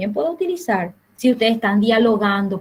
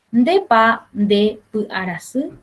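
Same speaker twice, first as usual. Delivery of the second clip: slow model question; slower than usual. Shown as a demonstration. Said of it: "estoy preguntando".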